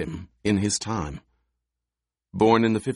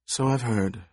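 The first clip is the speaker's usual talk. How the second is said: put-on wheezing old woman; 4 semitones higher than usual. A narrator's reading. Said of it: "wheezed the old woman".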